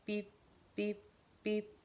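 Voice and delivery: short clipped beep beep beep; spoken imitation of a beeping watch; imitated watch beeps. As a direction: mimic a watch alarm. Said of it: "an annoying sound goes off from his watch".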